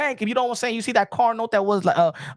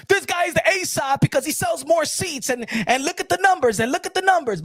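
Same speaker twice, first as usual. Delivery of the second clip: tag-free fan argument; 6 semitones higher than usual. Retold or imitated. Mimics boxing community arguing.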